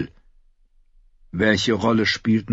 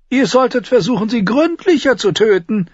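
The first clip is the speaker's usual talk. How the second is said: high, sardonic Tyrion; mocking dwarf voice; 5 dB louder than usual. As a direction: taunt the knight with a sly grin. Tyrion's dry retort.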